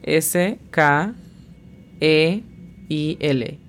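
S K E I L in Spanish letter names, spaced out; phonetic spelling. Shown as a demonstration. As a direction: spell it sound by sound with pauses. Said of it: "La pronunciación fonética es". (deletreo fonético de S K E I L, con pausas)

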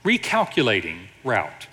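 lightly imitated sat-nav announcement; a hint of a measured navigation voice; GPS voice. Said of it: "And then it says this".

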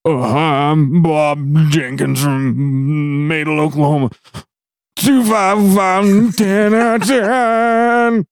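slow, halting beginner auctioneer; hesitant amateur auction call, drawn out; mock nervous auction student. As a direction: play a clueless first-timer at the podium. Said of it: "it's kinda like this".

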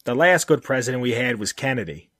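nasal Boston vowels; Boston accent. Pretend. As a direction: push the vowels through your nose, Boston style. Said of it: "push those vowels right through your nose".

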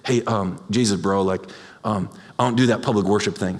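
low, halting too-cool bro; reluctant churchgoer. Acted. Churchgoer dodging public worship to Jesus, low and reluctant. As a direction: mumble an awkward excuse, pitched low. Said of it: "can you imagine someone come back and be like".

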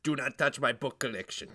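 put-on book collector explaining himself; comic possessive oddball; silly character voice. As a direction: state it earnestly as an oddball character. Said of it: "this guy who talks like this".

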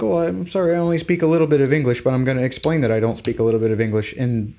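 lightly hammed-up condescending local; mock snooty European. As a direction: play a smug European who speaks perfect English. Mocking snooty European English speaker.

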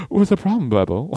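high funky voice; lightly voiced funk star; a funk musician. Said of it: "a funk star, that's who it is".

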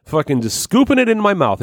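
high goofy gleeful voice; mocking Will. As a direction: ham up a dumb eager guy. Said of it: "Will was like".

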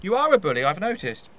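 piling on. Acted. Joins in the accusation.

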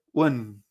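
"wen" with a very small e; tiny e. Shown as a demonstration. Teacher showing a regional variant, "wen" with a reduced e. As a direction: say "wen" drawn out, the e barely there. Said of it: "muy pequeñita esta E".

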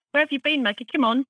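delighted welcome. Retold or imitated. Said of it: "It was".

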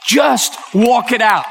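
slow, spaced-out urging; emotional urging. Real, not acted. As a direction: urge them on word by word. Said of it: "didn't mean to get emotional".

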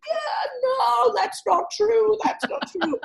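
high shouted protest, fading at the end; mock outraged French men shouting; roaring protest. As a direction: shout it down like an offended crowd. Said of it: "they were roaring".

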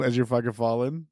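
usual speaking voice

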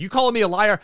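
sudden loud, high snarl of a question; angry challenge. Retold or imitated. Alexei challenging Ursa Major over his story, angry loud challenge. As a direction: bark it at him like a threat. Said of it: "And Alexei's like".

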